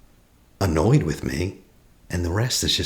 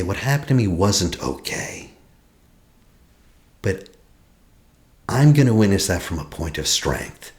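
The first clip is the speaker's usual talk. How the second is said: from strength. Shown as a demonstration. Coach shows the strong witness, firmly. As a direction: say it like someone standing strong. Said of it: "Can you say".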